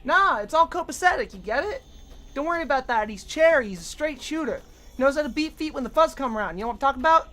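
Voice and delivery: high, loud jive talker; hepcat voice. Pretend. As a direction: ham up a slick hustler. Riffing in character slang voice.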